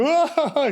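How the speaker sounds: a sudden high mock wail of weeping; hammed-up cry, thrown high; short high imitated sob. Imitating Joseph's loud weeping.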